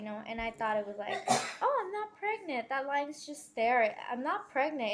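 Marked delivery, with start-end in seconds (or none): 1.6-4.9 dismissive denial. Retold or imitated. Acting out her own denial.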